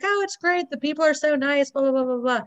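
bright, high mock cheer; high cheerful voice. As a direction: gush it in a high voice. Imitating Phoebe's cheerful answer.

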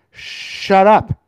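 loud sharp shut up; snapping at a meddler; angry snap. Real, not acted. Telling off a meddling listener, loud and sharp.

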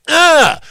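loud, high mock squeal of triumph; mock triumphant "ah". Host mimics a self-satisfied online goof, mock squeal. Mimics goof's delighted noise.

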